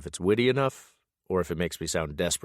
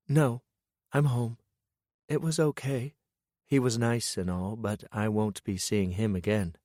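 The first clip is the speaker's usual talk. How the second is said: higher, a touch subdued woman's voice; a hint of a woman, shrugging it off; lightly voiced woman; 4 semitones higher than usual. Lillian reports on date.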